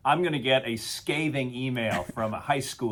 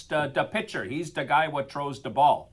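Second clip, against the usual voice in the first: imitating a thick Chicago accent, half-joking; teasing Chicago accent; mock Chicago accent. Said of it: "they don't talk like this".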